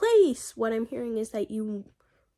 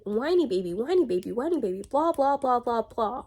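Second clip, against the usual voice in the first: singsong mocking chant; teasing, up-and-down whine; mock whining; 3 semitones higher than usual. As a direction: mimic a whiny baby in swooping repeats. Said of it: "literally just whining".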